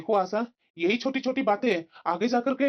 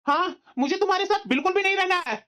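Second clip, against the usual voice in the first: raised pitch, emphatic and cross; angry insistence; 6 semitones higher than usual. Acted. Husband telling wife he wants divorce, angry insistence. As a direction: confirm it angrily.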